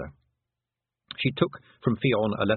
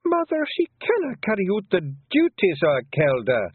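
higher Scots voice, objecting; protesting daughter; 11 semitones higher, 5 dB louder than usual. Acted. Fionn protests to her mother, a lightly voiced higher Scots objection. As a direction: push back against mother's choice. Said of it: "Fionn protested".

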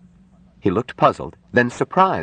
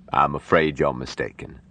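mild, kindly bad news; gentle; 2 semitones lower than usual. Doctor tells nurse her patient is dead, gently. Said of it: "he said gently to Jill".

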